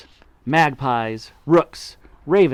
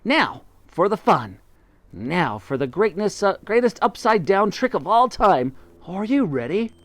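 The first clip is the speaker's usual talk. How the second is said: excited; 6 semitones higher than usual. A narrator's reading. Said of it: "cried Mugglewump".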